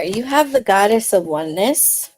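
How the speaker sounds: calm intuitive reading voice; tarot reading. Acted. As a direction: speak gently to the viewer as a reader. Tarot reading for water signs.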